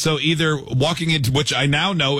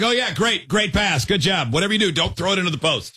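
excited game commentary; 5 semitones higher than usual. Retold or imitated. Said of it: "I'll be like".

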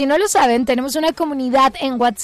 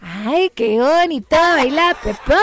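put-on slow sung kids' show line; kids' entertainer voice. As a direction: sing "baila" like a children's host. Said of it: "lo hace como un animador infantil".

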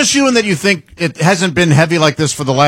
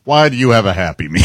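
Chris Hansen impression; 6 semitones lower than usual. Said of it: "some of those Chris Hansen things".

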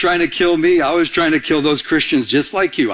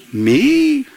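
said out loud; 8 semitones higher than usual. Pretend. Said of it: "Can we say it out loud?".

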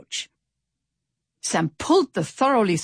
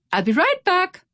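high, louder call; 13 semitones higher, 5 dB louder than usual. A narrator's reading. Pip runs off to the tavern, calling out. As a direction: call it back as you run off. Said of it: "called Pip".

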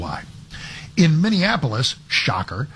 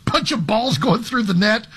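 laughing; 8 semitones higher than usual. Real, not acted. Laughing at Nashville Balls logo.

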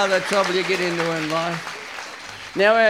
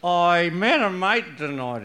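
put-on slurring drunk husband; thick, stammering drunk speech; 2 semitones lower, much slower than usual. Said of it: "he said thickly".

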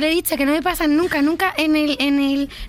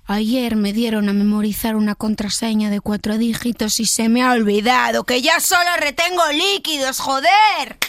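rising to a louder joder; building to angry; 5 dB louder than usual. Shown as a demonstration. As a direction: start calm, blow up at the end. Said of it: "del susurrado al enfadado".

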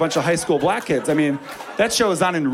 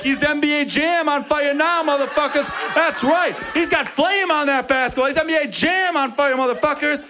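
hype announcer shout; 11 semitones higher than usual. Retold or imitated. Teammates hyping his hot streak, high shout. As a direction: yell it like an arcade announcer. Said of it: "Everyone on my team is like".

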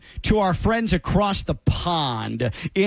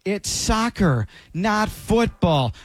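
mocking the complaint; slower than usual. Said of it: "get over yourselves, fake patriot".

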